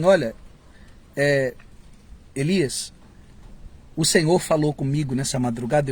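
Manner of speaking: quiet, soft-spoken prophet's message; a hint of a gentle humble messenger; simple humble prophet. Preacher voicing a simple true prophet delivering a message. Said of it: "dizem assim".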